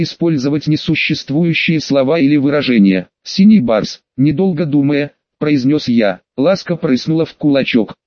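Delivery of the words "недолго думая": plain reading voice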